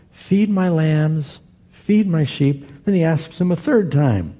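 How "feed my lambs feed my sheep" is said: slow, distinct retold command. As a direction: spell out each word deliberately, pitched up. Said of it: "So Jesus distinctly said".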